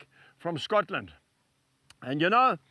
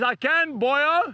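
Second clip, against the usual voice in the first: higher-pitched Welsh retort; Welsh accent; 5 semitones higher, 3 dB louder, much slower than usual. Retold or imitated. Stockman contradicting the preacher, in an imitated Welsh accent. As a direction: answer back in a lilting Welsh accent. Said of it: "He was speaking in that Welsh accent".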